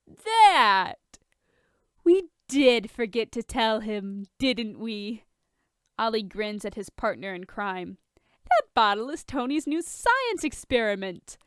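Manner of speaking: put-on drunk. Drunk pair teasing Bruce.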